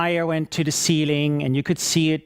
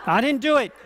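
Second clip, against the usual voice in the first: laughing mock denial; 7 semitones higher, faster than usual.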